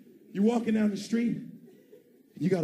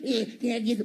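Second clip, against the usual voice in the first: homeless guy voice; 3 semitones higher than usual. Retold or imitated. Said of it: "we're gonna talk about that voice".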